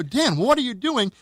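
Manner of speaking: high, drawn-out mock shout; retold exasperated yell. Director to cameraman after switching off the car, slow exasperated mock yell. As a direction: stretch it out in acted disbelief.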